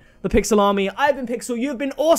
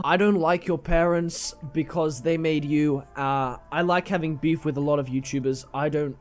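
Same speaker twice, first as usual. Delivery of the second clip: put-on Linkuru accent; 3 dB quieter than usual. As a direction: grumble in a badly attempted, Australian-like accent. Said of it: "I still don't get this accent".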